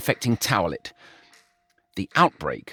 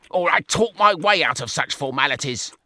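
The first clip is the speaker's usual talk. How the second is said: higher, airy boast; smug George; 5 semitones higher than usual. A narrator's reading. George bragging to Brian, smug. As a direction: preen about your charm.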